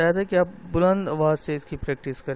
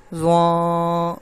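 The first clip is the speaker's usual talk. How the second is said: nasal wrong way; 6 dB louder, much slower than usual. Shown as a demonstration. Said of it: "ناک سے آواز آ رہی ہے".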